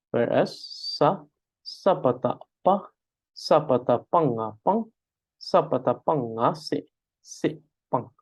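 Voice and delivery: "se pang" with an e vowel; central pronunciation. Shown as a demonstration. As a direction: spell it out the central way. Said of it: "it can be pronounced as se".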